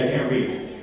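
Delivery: firm, sure delivery of I can't read; with great confidence. Shown as a demonstration. Coach asks volunteer for confidence, firm sure voice. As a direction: say I can't read like you mean it. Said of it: "Say it with great confidence".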